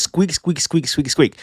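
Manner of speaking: soft, quick mock squeaking; imitated squirrel squeaks. Reviewer quoting the squirrel's rant, mock squeaks. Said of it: "This squirrel says".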